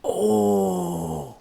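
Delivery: sharp high gasp of surprise; surprised oh. Real, not acted. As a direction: caught off guard, blurt it out. Streamer reacts to synth reveal.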